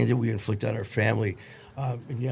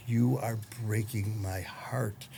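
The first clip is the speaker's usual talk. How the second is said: slow, soft tearful plea; 4 dB quieter, slower than usual. Retold or imitated. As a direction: say it through mild tears. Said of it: "she starts crying".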